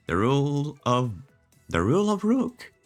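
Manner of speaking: disbelieving rising question; can't believe what you read; incredulous. Real, not acted. Incredulous repeat of the rule.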